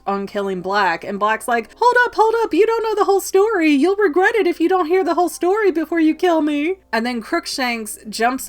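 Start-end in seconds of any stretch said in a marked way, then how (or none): 1.8-6.8 much higher, louder, rushed plea; frantic pleading. Retold or imitated. Black begging Harry to hear the story, frantic and fast. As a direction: beg them to wait, fast.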